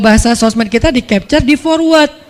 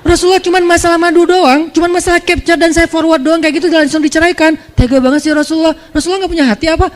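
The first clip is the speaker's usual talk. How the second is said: mock whiny complaint; 6 semitones higher than usual. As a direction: whine it like a wounded wife begging. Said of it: "Nggak, nggak".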